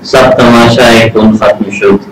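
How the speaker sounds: slow, measured recitation of verse; ghazal recitation. Acted. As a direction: lift the first line, settle the second. (دھیمی غزل خوانی)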